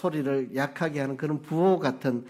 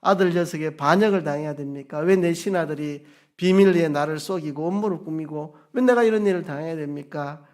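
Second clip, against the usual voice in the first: louder, indignant protest cried up to God; complaining to God; 2 semitones higher, 6 dB louder, faster than usual. Retold or imitated. Preacher voicing David complaining to God about his betrayal, louder and indignant. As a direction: voice David's bitter why-me complaint. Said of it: "하나님께 원망하고".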